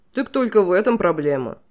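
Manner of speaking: king shrugs off the deaths cheerfully; breezy dismissal. A narrator's reading. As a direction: brush off her grief lightly. King brightly dismisses her grief.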